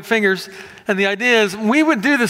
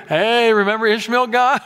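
mock Abraham; 3 semitones higher than usual. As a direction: remind God casually of Ishmael. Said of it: "he says here".

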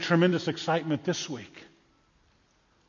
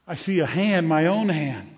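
laughing in wonder; 3 dB louder than usual. Acted. First sight, laughs.

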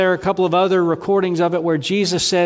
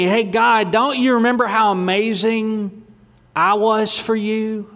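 higher, puffed-up voice bragging to God; mock boastful believer; 5 semitones higher than usual. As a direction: play the self-satisfied churchgoer fishing for praise. Mocking self-praising believers before God.

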